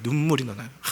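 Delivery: usual speaking voice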